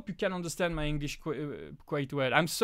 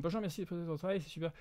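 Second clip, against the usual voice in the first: murmured, softer read-through of the French; reading quietly to himself; 5 dB quieter, much faster than usual. Real, not acted. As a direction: skim it under your breath first. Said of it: "to read the question in French".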